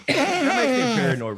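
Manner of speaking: high squeaky helium voice. Acted. Speaks after inhaling helium.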